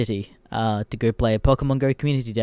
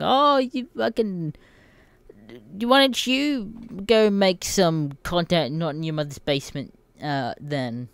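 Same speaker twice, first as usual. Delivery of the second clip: mock troll voice; 6 semitones higher, slower than usual. Parodying a troll telling him to move out of his mother's basement. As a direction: drag it out like a smug troll. Mocking a commenter.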